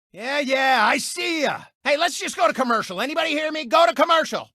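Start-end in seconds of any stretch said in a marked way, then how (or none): 1.8-4.5 1 calling out. Acted. Host calling to the crew.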